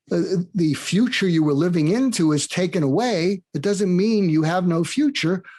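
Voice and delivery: eager and buoyant about pivoting; giddy excitement. Retold or imitated. CEO friend explains to Mark how to pivot, eager and lifted. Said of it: "I'm giddy with excitement".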